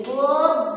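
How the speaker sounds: "গদ্য" slowly as god-do; doubled consonant. Shown as a demonstration. Teacher shows the doubled sound, drawn out. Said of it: "দ্বিত্ব উচ্চারিত হচ্ছে".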